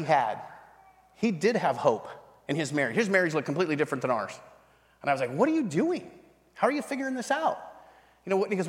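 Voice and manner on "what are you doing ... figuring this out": high-pitched, incredulous questioning; retold astonished plea for the secret; baffled pleading. Struggling husband quizzes his mentor, high baffled questioning.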